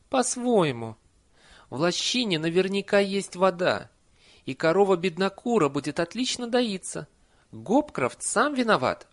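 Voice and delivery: put-on high old-nanny voice, lively and emphatic; indignant Nanny. A narrator's reading. Nanny defends Esme against talk of curses, indignant. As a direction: defend a friend with rising indignation.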